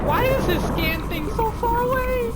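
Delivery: very high frantic whine; squealing in desperation; panicked complaint. Real, not acted. Player panics while scanning the Leviathan.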